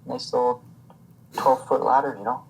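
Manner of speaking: hammed-up Canadian lumberjack; casual Canadian-accent impression. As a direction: play a folksy Canadian woodsman. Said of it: "I love your Canadian accent".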